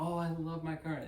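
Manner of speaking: mock-gushing about something adored; lightly imitated thrilled woman; gushing delight. Wife gushing about her new car.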